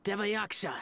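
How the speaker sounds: chanted loudly, slow and high; a demonstrated incantation called out loud. Shown as a demonstration. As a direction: declaim it like a spell. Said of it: "recite the incantation in a loud voice".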